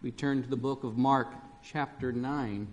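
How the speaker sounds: measured, formal reading of the gospel; scripture reading. Acted. Pastor reading the gospel lesson to the congregation, formal and measured. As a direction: read the lesson to the standing congregation.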